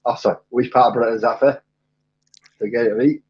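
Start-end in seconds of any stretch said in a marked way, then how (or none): 0.5-1.6 reworked Glaswegian accent attempt; Glaswegian, second try. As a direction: have another go at Glaswegian. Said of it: "that was hopefully Glaswegian".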